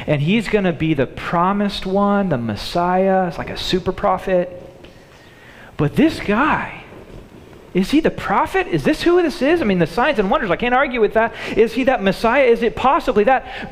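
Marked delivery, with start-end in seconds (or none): 5.8-13.7 wondering excitedly. Retold or imitated. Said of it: "they're thinking this".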